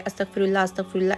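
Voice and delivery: quick, careless mumbled prayer; rushed recitation. Shown as a demonstration. Vlogger showing viewers the wrong, hurried way to recite. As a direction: rattle off the words too fast. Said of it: "ایسے نہیں کہ بس ہم جلدی جلدی پڑھ رہے".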